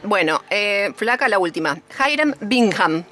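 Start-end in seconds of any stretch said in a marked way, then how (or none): 2.1-3.0 English name with hard, Germanic-style consonants; carefully sounded English with a Germanic touch; showy English pronunciation. Shown as a demonstration. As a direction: show off your English pronunciation. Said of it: "Mira vos cómo pronuncio yo el inglés".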